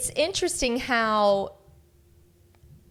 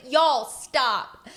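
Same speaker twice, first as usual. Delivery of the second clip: mock yell; 3 semitones higher than usual. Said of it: "I don't, I don't yell, but I think I did yell".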